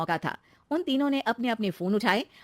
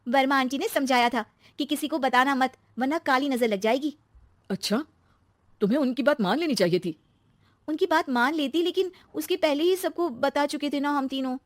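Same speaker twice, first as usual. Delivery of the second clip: put-on higher young wife's voice, explaining; rueful daughter-in-law; 5 semitones higher than usual. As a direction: recall the warning with regret. Narrator voices Shweta. (पछताती हुई बहू)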